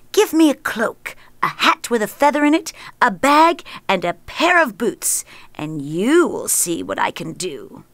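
the cat asking boldly, lightly voiced; clever cat voice. Cat's voice in story.

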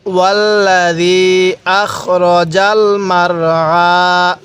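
very slow drawn চant of ওয়াল্লাযী আখরাজাল মারআ; slow recitation. Shown as a demonstration. Teacher leading the class, very slow chant. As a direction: recite slowly for students to echo. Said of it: "আরেকবার আমার সাথে পড়ুন".

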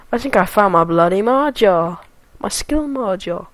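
a poor attempt at a spy-comedy catchphrase; lightly voiced British swinger, badly faked; Austin Powers. Gamer finding his skill, half-hearted British impersonation. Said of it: "I can't do a good Austin Powers".

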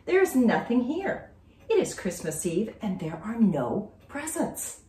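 put-on a little girl calling her friend in distress; girl phoning her friend about missing presents; Julie on the phone. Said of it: "She called her friend ... and said".

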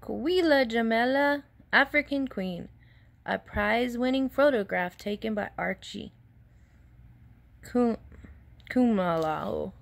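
high proud announcing read; proudly. Acted. Archie proudly reads the newspaper headline to Jamila, high proud read. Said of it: "Archie read proudly".

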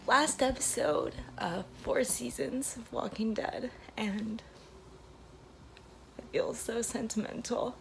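emotional, near tears, half whispered; tearful goodbye. Real, not acted. Emotional trailer video, last day.

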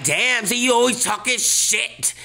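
high, whiny imitation of a viewer; mock a viewer complaining; viewer's complaint. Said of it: "You're like".

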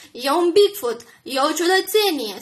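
loud jeering yell. A narrator's reading. Drunk woman yells insults at Alice, jeering loudly. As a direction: taunt at full voice. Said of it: "striga femeia".

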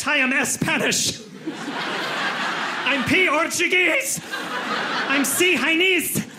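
first letter named, then the rest, as in "C Chinese", high and slow; mock letter-first pronunciation. Comic extending the Italian error to other nationalities, high slow mock mispronunciation. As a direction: parody people spelling the first letter of Spanish, Portuguese, Chinese aloud. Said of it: "say the letter I, then the rest".

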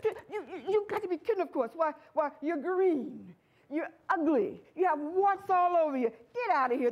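stammered, hammed-up scorn; mock disbelief. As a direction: sputter in pretend outrage, then dismiss him. Birds reject the frog with disbelief.

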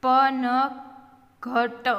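slow, every letter with its vowel; sounded out. Shown as a demonstration. Teacher spelling for beginning readers, sounded out. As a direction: stretch પનઘટ out as pa-na-gha-ta.

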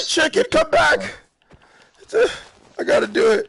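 very high, loud pleading shout; mock anguished calling. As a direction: cry out after a fleeing animal. Calls after chicken, mock remorse.

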